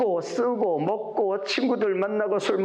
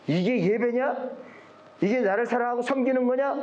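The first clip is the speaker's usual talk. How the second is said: higher-pitched indignant questioning; preacher imitating a divine rebuke; retold scolding; 6 semitones higher than usual. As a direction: scold them as God, mildly acted. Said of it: "그러면서 막 야단을 쳐요".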